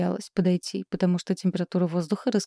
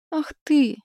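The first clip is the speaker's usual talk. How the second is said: 1 outraged; 8 semitones higher than usual. A narrator's reading. Шагнул к Игорю Исаак.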